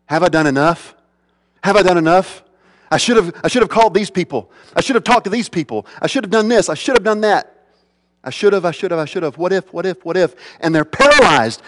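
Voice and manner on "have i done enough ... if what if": mounting anxious fretting. Retold or imitated. Preacher voicing a paralyzed Christian's worries, anxious and rising. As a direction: fret faster and faster, panicking over failures.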